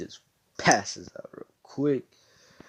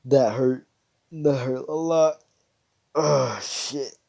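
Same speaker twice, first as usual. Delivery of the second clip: pained yelling; 4 semitones higher, 7 dB louder, slower than usual. Acted. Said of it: "he's just like".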